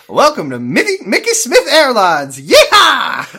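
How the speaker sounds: loud, high, hammed-up Southern American drawl; Southern American accent. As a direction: holler like a mock Southern American pilot. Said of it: "doing it in a funny Southern American accent".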